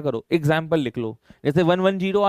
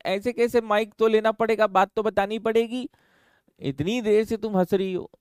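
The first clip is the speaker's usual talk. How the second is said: higher, lively teasing; playful teasing; 5 semitones higher than usual. Real, not acted. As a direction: coax her with mock insistence. Teasing student to speak. (छात्रा को mic लेने के लिए हल्का छेड़ना)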